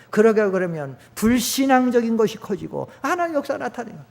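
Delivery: normal talking voice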